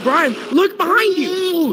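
high slow warning call; urgent call out. Real, not acted. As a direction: drag it out, calling across. Warning teammate of monster.

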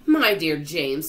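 slow, loud, fond address; affectionate. A narrator's reading. Old grasshopper praises James, affectionate. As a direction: draw the words out with affection. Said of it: "laying a front leg affectionately".

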